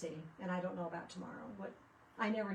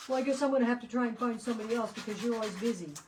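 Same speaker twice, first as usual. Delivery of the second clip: mock complaint; 3 semitones higher, 8 dB louder, faster than usual. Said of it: "He'll be like".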